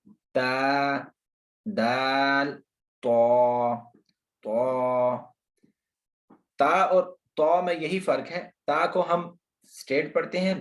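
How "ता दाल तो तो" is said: ता light and relaxed, दाल plain, तो heavy with a rounded mouth. Shown as a demonstration. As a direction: drill the letters, making तो thick. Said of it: "तो को जो है वो मोटा अदा करना है".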